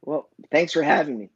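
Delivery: hoarse, failing voice; voice giving out. Real, not acted. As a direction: speak through a worn-out voice. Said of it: "It feels like I'm losing my voice today".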